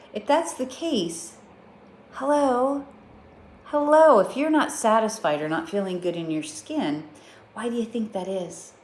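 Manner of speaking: rising, incredulous mock lecture; self-scolding wake-up call. To herself, incredulous wake-up call. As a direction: snap yourself out of it. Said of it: "So I thought".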